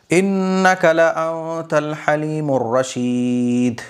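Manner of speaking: slow, measured Arabic recitation; slow melodic chanting of scripture; Quran recitation. Acted. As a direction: recite the verse with long drawn-out vowels.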